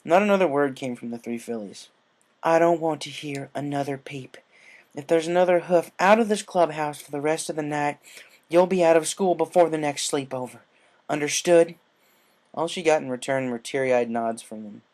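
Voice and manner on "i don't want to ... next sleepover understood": loud, firm reprimand; stern scolding. A narrator's reading. Applejack scolding fillies, stern and loud. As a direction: lay down the law.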